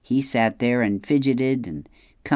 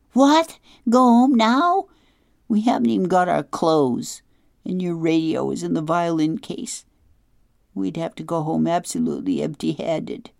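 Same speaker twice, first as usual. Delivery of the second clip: put-on much higher, loud, incredulous girl; a girl aghast at giving up and going home; shocked disbelief; 7 semitones higher, 4 dB louder than usual. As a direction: jump on the idea in high alarm. Girl shocked at the idea of quitting.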